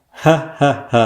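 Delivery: measured, separate "ha, ha, ha"; neat robot laugh. A narrator's reading. Sekar the computer laughs once allowed, neat robot laugh. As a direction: laugh in tidy, detached syllables. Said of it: "கச்சிதமாக சிரித்தான் சேகர்".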